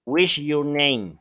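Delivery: said slowly, What's sounded like /wiʃ/; slow demo of the wrong form; slow wrong example. Shown as a demonstration. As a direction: model the mistake slowly for the class. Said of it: "Tú nunca vas a decir".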